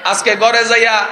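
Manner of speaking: ordinary talk, nothing marked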